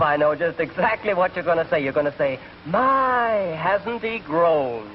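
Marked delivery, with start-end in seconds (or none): 2.7-4.9 high then drawn-out, mock admiration; gushing acquaintance. Predicting what Bob will say, mock gushing. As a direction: lightly mimic a fawning admirer, stretching the last words. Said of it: "They look at me and they say".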